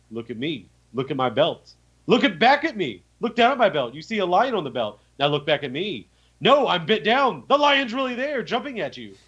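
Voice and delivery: a hint of a cologne-ad hunk selling the moment; Old Spice commercial. Player to pirate, lightly mock Old Spice ad voice. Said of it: "pretty much an Old Spice commercial".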